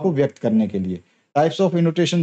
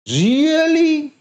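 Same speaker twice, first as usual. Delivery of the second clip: Really? leaping much higher, then falling fast on ली; rise-fall tune; 13 semitones higher, 3 dB louder than usual. Shown as a demonstration. Teacher demonstrating rise-fall intonation on Really?. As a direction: swoop up high on Really? and drop. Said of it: "बढ़ाया भी और घटाया भी".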